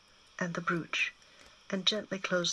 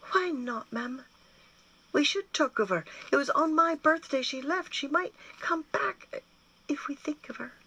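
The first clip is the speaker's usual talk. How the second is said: put-on a boy pleading, pitched up high and urgent; 9 semitones higher, 4 dB louder than usual. A narrator's reading. Gwyn begging his mother to keep talking of Bethan, pleading and high. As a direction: push the hope up high like an anxious boy.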